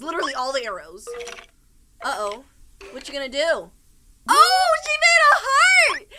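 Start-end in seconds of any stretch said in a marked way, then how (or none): 4.3-6.1 high, loud, drawn-out gushing; slow, high-pitched adoring cry; delighted squeal. Real, not acted. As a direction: squeal with delight at something cute. Gushing over cute heart.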